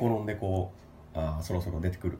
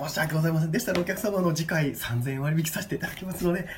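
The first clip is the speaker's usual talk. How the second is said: high, overly polite clerk; polite staff voice; 8 semitones higher than usual. Pretend. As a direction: apologise like a prim receptionist. Staff role continues.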